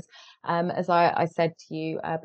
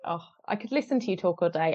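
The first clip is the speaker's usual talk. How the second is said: normal talking voice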